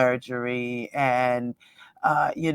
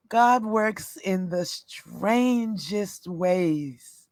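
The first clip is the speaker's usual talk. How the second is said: normal talking voice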